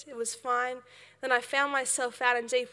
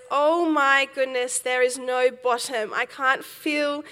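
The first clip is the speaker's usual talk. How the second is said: sudden panic; 6 dB louder than usual. Retold or imitated. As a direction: let the fear hit as the floor vanishes. Realizing there's no bottom.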